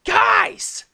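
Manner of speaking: raging. A narrator's reading. Lucas yelling at bickering partners, furious. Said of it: "Lucas raged".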